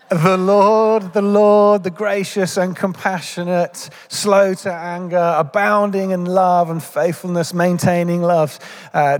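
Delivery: congregation reciting scripture together; many voices reading scripture aloud; group recitation. Real, not acted. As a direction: chant the verse as one voice. Congregation recites Exodus verse together.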